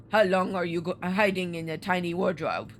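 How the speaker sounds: low Russian sailor's question; interrogating in a put-on Russian accent. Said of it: "a Russian accent, but we'll try it".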